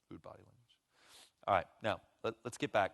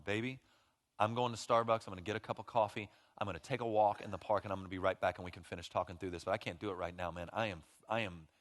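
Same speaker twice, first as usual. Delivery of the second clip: calm, tender excuse; 3 semitones lower than usual. Retold or imitated. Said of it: "nothing wrong with going".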